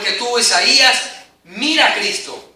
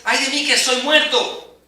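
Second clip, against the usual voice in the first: slowing, louder cry of dread; fear for his life; 4 semitones higher, 3 dB louder than usual. Acted. Preacher voicing Isaiah's fear of death, dread-filled cry. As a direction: plead like death is coming. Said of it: "hay un temor de su vida".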